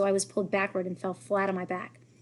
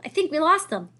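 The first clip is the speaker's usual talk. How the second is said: louder, higher call; yelled; 8 semitones higher, 5 dB louder than usual. A narrator's reading. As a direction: call it out, breathless with relief. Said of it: "someone yelled".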